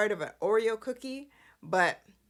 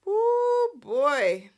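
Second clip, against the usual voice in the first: high, loud, drawn-out whoop; dramatic exclamation; 7 semitones higher, 7 dB louder than usual. Real, not acted. Recapper bracing listeners for a fight, dramatic whoop. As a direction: let the first word ring out high and loud.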